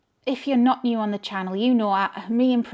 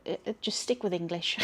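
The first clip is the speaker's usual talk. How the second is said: laughing; 11 semitones higher than usual. Real, not acted. Laughs while quoting the goddess.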